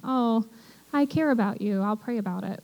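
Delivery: breezy, offhand "I'll pray about it"; a hint of polite dismissal; casual empty promise. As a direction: toss off "pray about it" lightly, as a throwaway. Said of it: "cover over everything".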